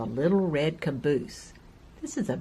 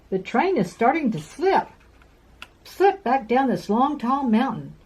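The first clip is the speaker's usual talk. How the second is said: raised, higher urgent warning; urgent call; 6 semitones higher than usual. Acted. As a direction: keep calling in alarm. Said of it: "called the flat car".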